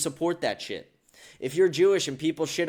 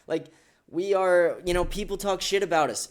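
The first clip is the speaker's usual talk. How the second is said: a touch of mock grievance; mock complaining; 3 semitones higher than usual. Imitating people complaining about religious insults, mock complaint. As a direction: lightly imitate a complainer, pitch raised. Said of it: "Anyone complaining".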